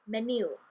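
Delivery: "menu" ending in an ew sound, South Wales style; "menu" the South Wales way, ew not uw. Shown as a demonstration. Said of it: "a little bit more like an ew sound".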